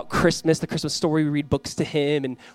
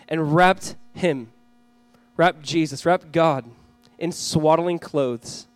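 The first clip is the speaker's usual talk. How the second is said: measured, emphatic public Bible reading; scripture reading; 2 semitones higher, 4 dB louder than usual. A narrator's reading. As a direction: proclaim the verses, stretching key words. Reads scripture aloud to congregation.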